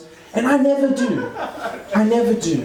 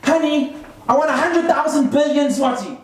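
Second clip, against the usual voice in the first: lightly voiced wife, pitched up; wife asking husband; 5 semitones higher than usual. Fifties housewife asks husband for money, lightly acted higher voice. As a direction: put on a hint of a pleading-for-money wife. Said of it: "going up to her husband going".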